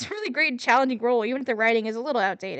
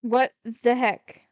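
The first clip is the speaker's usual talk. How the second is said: ordinary talk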